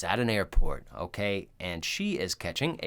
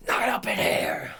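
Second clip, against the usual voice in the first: whispering; 11 semitones higher than usual. Acted. Joking reply to plane rant.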